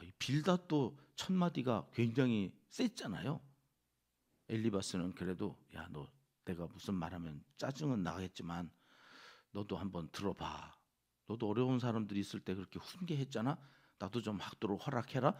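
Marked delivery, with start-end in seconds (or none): 5.8-15.4 1 gentle opening. Retold or imitated. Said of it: "엘리바스는 점잖게 시작했는데".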